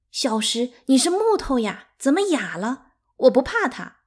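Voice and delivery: high, loud and upset; a sister near tears, stung and defiant; tearful anger. A narrator's reading. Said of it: "呜咽着说". (带着哭腔又气又急)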